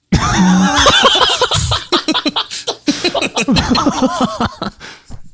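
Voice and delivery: very high, sustained laughter; long laughing fit. Real, not acted. Friends react to killing Rex's family, laughing hard.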